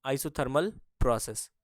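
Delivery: isothermal प्रोसेस drawn out slowly, word by word; slow, spelled-out repeat. Shown as a demonstration. Teacher slowly repeating the term for the class. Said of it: "ये isothermal प्रोसेस को हिंदी में".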